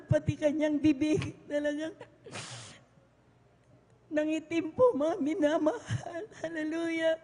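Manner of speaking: tearful, half-laughing sob; crying while testifying. Real, not acted. Telling the church about her son, tearful. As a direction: voice breaking through tears. Crying recalling son's face.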